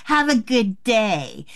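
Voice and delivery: slow, drawn-out snarky send-off; mock-polite snark, drawn out slowly. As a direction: imitate a snotty shopper, stretching each word. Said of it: "in a very snarky way".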